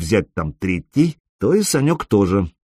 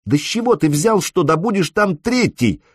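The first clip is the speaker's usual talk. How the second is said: high, on the verge of yelling; near shout; 9 semitones higher than usual. A narrator's reading. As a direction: voice climbing towards a cry. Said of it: "едва не сорвалась в крик".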